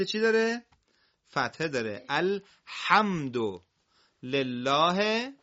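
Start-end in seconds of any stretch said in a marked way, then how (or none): 2.1-5.3 very slow, stretched-out recitation; Quran recitation. Shown as a demonstration. Teacher reciting the verse for pupils, slow measured recitation. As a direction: draw out each word for learners.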